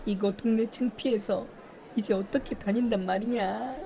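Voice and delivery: tut-tut over her shame; gossiping villager. Acted.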